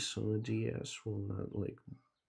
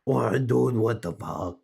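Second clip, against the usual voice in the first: loud shouted hey; calling out; 10 dB louder than usual. Real, not acted. Player shouting at the animal to come over, loud calling. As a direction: bellow to get its attention.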